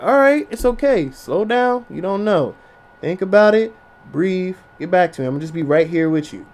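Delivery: soft, gentle soothing. Retold or imitated. Boyfriend soothing his upset girlfriend, soft and gentle. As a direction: talk her down quietly. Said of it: "And be like".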